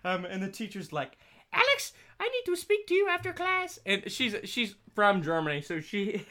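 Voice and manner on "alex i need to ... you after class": a hint of a German-accented stern teacher, high. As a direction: scold in a light German accent. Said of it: "she has a very thick German accent".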